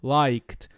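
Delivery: low LIKED, one syllable ending in KT. Shown as a demonstration. Teacher modelling LIKED in low voice with a T ending. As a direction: add a voiceless T after the K in LIKED. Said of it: "como se eu colocasse um T ali".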